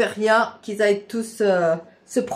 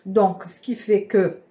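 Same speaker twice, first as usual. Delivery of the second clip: talking with mouth full; chewing while talking. Real, not acted. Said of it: "Pardon, par la bouche pleine".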